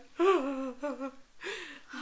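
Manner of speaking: gasping, hammed-up sobs; playful gasping sob noises; mock violent sobbing. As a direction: fake a fit of sobbing. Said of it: "Violently sobs".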